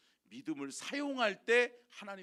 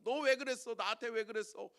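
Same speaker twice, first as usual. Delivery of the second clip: rebuke; 4 semitones higher than usual. Retold or imitated. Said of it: "믿지 않는 왕이 책망하잖아요".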